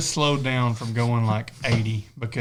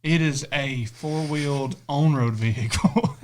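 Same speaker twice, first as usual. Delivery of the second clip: slow deadpan definition; slower than usual. Pretend. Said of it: "deadpan definition".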